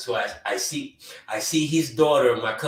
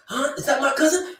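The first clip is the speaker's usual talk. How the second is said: surprised; 12 semitones higher, 4 dB louder than usual. Retold or imitated. Imitating stunned onlooker.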